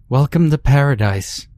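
high, loud, eerie unison greeting; sing-song welcome from creepy dolls; eerie doll chorus. A narrator's reading.

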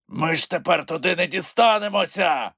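high, despairing creature voice; Grampus yelling. A narrator's reading. Grampus despairs at the sea, frustrated creature wail. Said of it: "репетував він".

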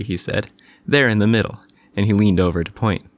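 calm storybook reading voice; gentle bedtime story narration. A narrator's reading. Reads story aloud.

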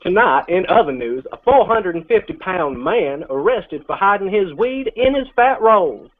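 hammed-up local news anchor voice; mock news anchor accent. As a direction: read it like a cheesy TV newsman. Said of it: "talk the whole rest of this thing in this accent".

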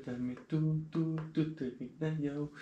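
sing-song it under your breath; hushed. Real, not acted. Late at night to his girlfriend, hushed and soft. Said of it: "Maar ik moet wel stil zijn".

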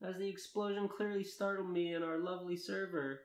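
earnest read-aloud of a first-person tale; story narration. Acted. Narrator reading fan fiction to friends, story narration. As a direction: narrate it in measured, lilting sentences.

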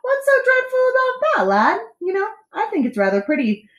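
high, hammed-up jolly dismissal; amused captain. A narrator's reading. Captain brushes off boy's fears, laughingly. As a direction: talk through merriment. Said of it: "laughed the captain".

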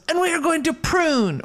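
very high mock Mexican accent; hammed-up Mexican-accented declaration; put-on Mexican accent. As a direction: play a movie bandito, pitch soaring, with a Mexican accent. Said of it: "I need to stop doing an accent".

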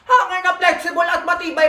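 shouted out the product pitch; excited shout. Real, not acted. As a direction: call it out like a market hawker.

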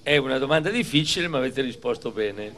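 big, bright quiz-master questions to a crowd; milk each question like a TV host; showy game show host. Acted. Quizzing schoolchildren like a quiz. (presentatore da quiz televisivo)

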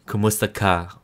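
"Kumusta ka?" with a mild American English accent; an American actress trying to say "Kumusta ka?". Shown as a demonstration. Vlogger mimics Trece's dubbed line, American accent. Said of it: "You will hear Trece saying".

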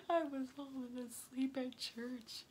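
high, loud, slow through laughter; laughing confession. Real, not acted. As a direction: confess it while cracking up. Laughing confession about church.

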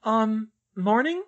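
high, slow, tentative question; awkward greeting. A narrator's reading. Girl to her shocked parents, awkwardly questioning.

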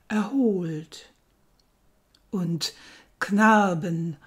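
measured poem reading with long pauses; poetry recitation. Acted. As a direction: recite it line by line, letting phrase endings fall away. (getragene Gedichtrezitation)

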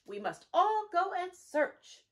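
bright storybook wren; little bird tweet. Acted. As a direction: chirp it like an eager wren. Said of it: "Wren tweets".

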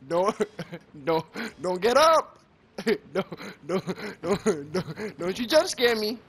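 nervous pleading with a laugh; scared pleading. Real, not acted. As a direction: beg the monster not to get up. Begging game not to jump scare.

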